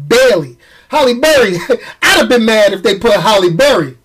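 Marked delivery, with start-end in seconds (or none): 0.1-0.6 Bailey said alone, emphatic BAY-lee; corrected pronunciation. Shown as a demonstration. Host correcting a misheard name, emphatic pronunciation. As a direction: land firmly on Bailey, not Berry. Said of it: "not Berry".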